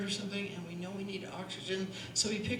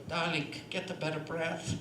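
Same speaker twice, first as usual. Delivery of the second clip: lightly voiced, lower teacherly aside; a hint of a bespectacled old coach, pitched down; Olga; 4 semitones lower than usual. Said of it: "Olga should be sitting there with her cataract glasses on saying".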